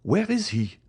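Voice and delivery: very high, urgent question; agitated cry for the doctor; alarmed exclamation. A narrator's reading. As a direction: demand it frantically, pitch leaping up. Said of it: "exclaimed Villefort".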